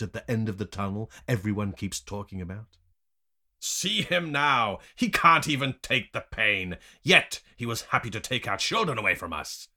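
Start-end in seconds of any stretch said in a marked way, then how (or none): 3.6-9.7 raised, loud scorn; high, accusing jeer; scornful captor. A narrator's reading. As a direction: sneer at him loudly before the others. Captor mocks the whipped prisoner.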